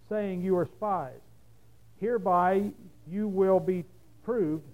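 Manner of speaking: measured, deliberate Bible reading; scripture reading. A narrator's reading. Preacher reads the Joseph story to the congregation, measured scripture reading. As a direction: read it out evenly, phrase by phrase.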